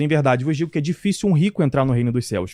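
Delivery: ordinary delivery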